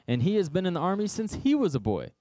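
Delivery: high, quick exasperated king; scoffing king. Acted. King Saul listing why David can't fight, quick and high. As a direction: rattle off the reason, incredulous.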